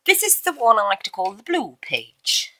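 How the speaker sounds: a mock-grand posh English accent, lightly done. Introducing the blue page to viewers, in a light mock posh English accent. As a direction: announce it like a plummy English hostess, tongue in cheek. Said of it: "I said that in such a posh accent".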